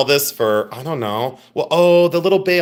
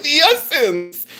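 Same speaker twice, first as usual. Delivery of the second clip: very high, whimpering creature voice; drawn-out whiny hums and high words; Skeksis; slower than usual. Pretend. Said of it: "I was pretending to be a Skeksis".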